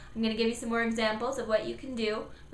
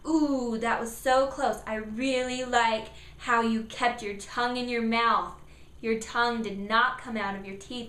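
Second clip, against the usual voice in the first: praising parent. Shown as a demonstration. Parent cheering child's close attempt. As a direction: praise how close they got. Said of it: "you can say".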